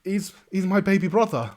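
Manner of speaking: loud, high-pitched bard voice; breezy bard. Acted. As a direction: announce it brightly, pitched right up. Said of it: "the bard kinda looks up at you and goes".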